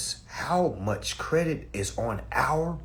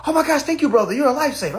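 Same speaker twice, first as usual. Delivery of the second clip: mock grateful; 11 semitones higher, 7 dB louder, much faster than usual. Grateful follower quoted.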